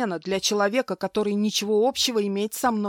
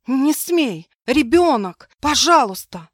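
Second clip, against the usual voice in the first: higher, louder desperate begging; pleading; 6 semitones higher, 9 dB louder, slower than usual. Acted. Wife begs her husband to spare the baby, loud desperate pleading. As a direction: beg for the baby's life. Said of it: "пыталась умолять".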